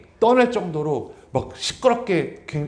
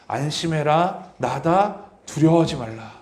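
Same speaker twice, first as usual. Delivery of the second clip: Jesus' reassurance; slower than usual. Acted. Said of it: "예수님이 나에게 주시는 메시지입니다".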